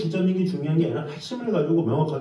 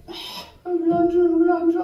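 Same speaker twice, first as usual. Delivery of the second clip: higher, louder whiny wail of a spoiled petitioner; whining demand; 12 semitones higher, 3 dB louder, slower than usual. Retold or imitated. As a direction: wail it like a child denied a toy. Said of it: "그러면서 막 울어".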